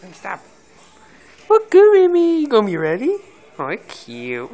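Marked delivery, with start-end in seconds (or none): 1.5-3.2 high, loud cheering shout; excited shout. Real, not acted. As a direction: yell it out up high. Cheering the dog on.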